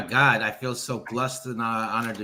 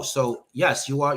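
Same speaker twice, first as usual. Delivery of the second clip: normal talking voice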